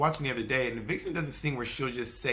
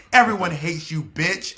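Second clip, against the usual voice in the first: mock insult; 4 semitones higher, 7 dB louder than usual. Quoting a reunion insult.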